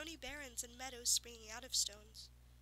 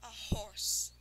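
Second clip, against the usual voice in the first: bitter scorn; 7 dB louder than usual. Acted. Unicorn bitterly repeating insult.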